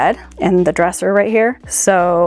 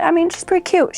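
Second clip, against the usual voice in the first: admiring; 9 semitones higher than usual. Real, not acted. Admiring dress, high pitch.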